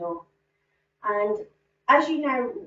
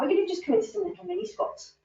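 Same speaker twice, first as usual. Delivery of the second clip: mini said higher, with a clear push on it; stress on mini; 10 semitones higher, faster than usual. Real, not acted. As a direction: lean on the word mini so the squats sound small. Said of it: "emphasis on the word mini".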